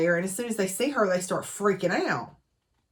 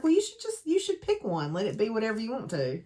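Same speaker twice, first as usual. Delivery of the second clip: lightly voiced young woman, much higher at the start, then quick; a hint of Evie's breezy advice, pitched up; imitating Evie; 4 semitones higher, faster than usual. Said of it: "And she's like".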